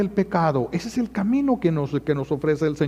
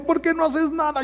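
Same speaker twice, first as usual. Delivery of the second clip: high mock nagging husband; 11 semitones higher than usual. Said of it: "Y su viejo".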